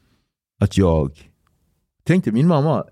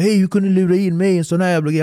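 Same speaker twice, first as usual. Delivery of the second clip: fast, higher, worked-up complaint; irritated; 5 semitones higher, faster than usual. Retold or imitated. Angry at the skipper for the mess, fast and irritated. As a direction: fire it off annoyed and quick. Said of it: "jag började bli så irriterad".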